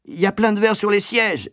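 high-pitched squealed protest; children yelping a complaint. A narrator's reading. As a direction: whine it high like alarmed kids. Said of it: "glapirent-ils".

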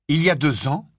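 Harry pressing the elf, heart pounding; Harry, tense. Acted. Harry questions the house-elf urgently.

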